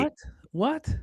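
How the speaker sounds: startled high-pitched what; shocked. Real, not acted. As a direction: jump at the news in disbelief. Shocked by scam news.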